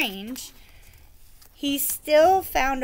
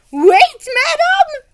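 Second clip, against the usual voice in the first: very high, loud pleading knight; 12 dB louder, much slower than usual. Acted. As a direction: call after her, begging. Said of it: "Sir Fartslot pleaded".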